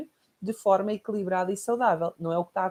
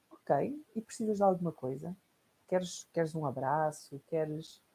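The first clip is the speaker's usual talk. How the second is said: softer, slow comforting offer; tender mother; 2 semitones lower, 4 dB quieter, slower than usual. Retold or imitated. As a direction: open your arms gently. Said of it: "E a minha mãe diria". (mãe acolhedora, suave e lenta)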